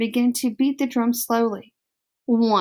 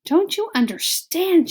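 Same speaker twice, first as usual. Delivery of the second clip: higher, louder angry shout; shouting father; 8 semitones higher, 4 dB louder than usual. Acted. Lester to his wife, high angry shout. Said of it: "shouted Lester".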